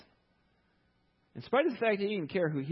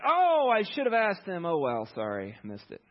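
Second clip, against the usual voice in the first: careless shrug; 4 dB louder than usual. Retold or imitated. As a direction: brush it off, careless and fading. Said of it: "He's like".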